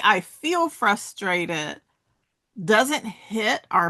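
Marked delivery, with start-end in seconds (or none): 0.0-1.8 "I feel frustrated" slowed, feel stressed; slow, stressing feel. Shown as a demonstration. Speaker explains the phrasing to listeners, slowly. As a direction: draw out "feel".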